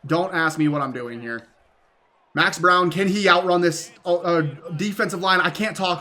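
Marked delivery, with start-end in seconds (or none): 2.3-5.4 stuttering, tripping over words. Real, not acted. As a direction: stumble and stutter through the call. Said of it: "I'm fucking stuttering".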